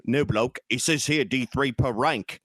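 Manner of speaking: hammed-up British bloke; put-on British voice, slow on the rule; mock British accent. British player arguing the rules as written, mock British accent.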